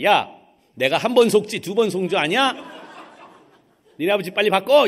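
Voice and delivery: loud, annoyed scolding with a laugh; scolding deaconess. Retold or imitated. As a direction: snap at the boy to put his father on. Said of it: "다짜고짜".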